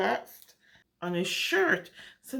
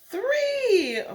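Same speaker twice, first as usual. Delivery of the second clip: surprised; 10 semitones higher, 6 dB louder than usual. Acted. Counting buttons with surprise.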